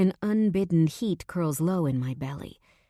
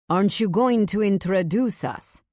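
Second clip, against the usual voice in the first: calling out; 3 semitones higher, 4 dB louder than usual. A narrator's reading. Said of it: "Leo calls out".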